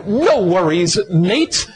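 a hint of Australian brogue; relaxed Australian lilt with a rising finish; Australian accent. Preacher savoring his Australian friends' phrase, lightly Australian. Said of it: "not in Australian brogue".

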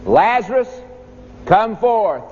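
a moderate preacher's cry, not full force; loud cry. Acted. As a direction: call him out of the tomb. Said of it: "he cried with a loud voice".

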